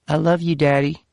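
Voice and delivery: put-on high young child's I love you; little girl voice. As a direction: daughter telling dad she loves him. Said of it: "Her little Virginia accent".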